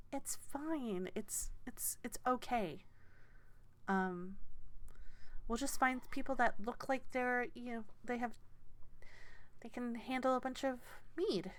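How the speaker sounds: a hint of a flustered gnome organiser; gnomish woman.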